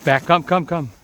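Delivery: loud call to the dog. Real, not acted. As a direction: call her in firmly. Calling dog to come.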